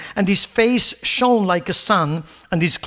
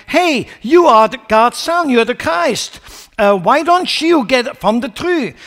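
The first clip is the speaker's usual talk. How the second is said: a hint of a jeering criminal, higher and louder; mocking jeer; 4 semitones higher, 3 dB louder than usual. Criminal on the cross mocking Jesus, jeering. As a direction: taunt him lightly from the cross. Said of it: "mocked him by saying".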